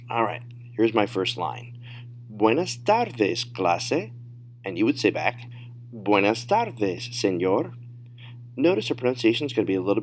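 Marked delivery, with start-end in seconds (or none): 2.3-4.1 slow model phrase, stretching out "tardes"; drawn-out, clearly separated teacher demo; slow, careful model. Shown as a demonstration. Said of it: "say them at natural speed". 5.9-7.7 slow model reply, stretching out "tardes"; drawn-out teacher demo; slow, careful model. Shown as a demonstration. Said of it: "say them at natural speed".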